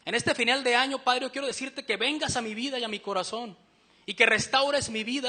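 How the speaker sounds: oración ferviente que va cobrando fuerza; clamor suplicante. Acted. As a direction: ruega con insistencia, como quien necesita ayuda. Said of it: "O, o con nuestro clamor". (súplica fervorosa en voz firme)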